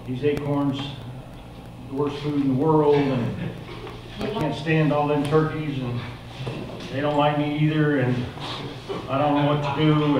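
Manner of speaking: soft, downcast self-pitying voice; quietly acting out a defeated turkey; dejected. Turkey confessing worthlessness to the wise owl, soft and dejected.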